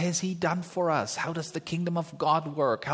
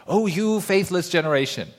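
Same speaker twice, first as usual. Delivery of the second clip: rebuking Jesus; 2 semitones higher, 6 dB louder than usual. Retold or imitated. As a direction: scold the faithless crowd. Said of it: "He usually started with".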